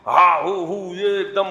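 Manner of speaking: hammed-up wordless bellowing; mock yelling. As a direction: imitate someone storming in shouting. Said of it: "چیخنا چلانا شروع کرتے ہو".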